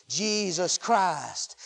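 slow, whispered reverence; hushed. Real, not acted. Preacher naming the merciful one, hushed. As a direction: whisper the name very slowly.

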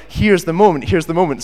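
high, loud eager thought; very excited. Retold or imitated. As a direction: burst out with giddy anticipation. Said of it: "And I'm very excited".

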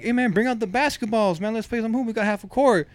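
retold cheeky request to a teacher; mock-bossy, lightly sarcastic. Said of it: "in a sarcastic, like, tone".

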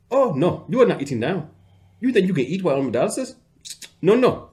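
high, loud, scolding mock African accent; imitating a thick African accent. Thick African accent as the strict dialysis tech refusing food. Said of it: "her accent ... came out real thick".

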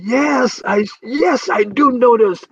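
a hint of a smug reader insisting he knows it; reader saying yes. Reader telling himself he knows this, mildly mock-eager. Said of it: "You say".

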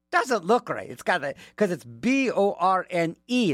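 usual speaking voice

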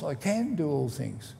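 "can" given the main weight; stress on CAN. Shown as a demonstration. Preacher assuring listeners of a promise, stressing "can". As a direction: press on "can", lighter on what follows. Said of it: "each time emphasising a different word".

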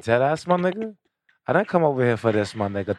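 a touch of mock New York swagger; New York accent. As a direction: lightly imitate a New York man talking. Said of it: "They be like".

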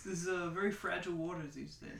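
lingering mock Staten Island accent; slipping into a Staten Island Italian accent. Stuck in the Staten Island accent he was mocking. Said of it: "I can't get myself out of the accent".

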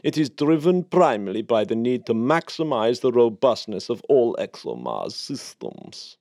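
lightly voiced Russian official reading a formal statement; a hint of a stiff Russian spokesman, slowing at the end; mock-official statement voice, only slightly put on; Dmitry Rogozin impression. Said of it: "my Dmitry Rogozin was particularly good".

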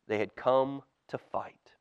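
hushed, breathy storyteller whisper; whispered storytelling aside; dramatic whisper. A narrator's reading. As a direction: whisper it like a secret to kids.

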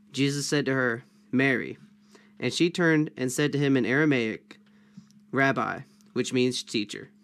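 measured Bible reading with pauses between phrases; formal read-aloud of a gospel story; scripture reading. A narrator's reading. Reads the Bible passage aloud.

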